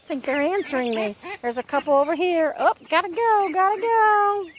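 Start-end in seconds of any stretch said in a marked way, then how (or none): 2.6-4.5 hurried bird voice. Pretend. Voicing hurried birds.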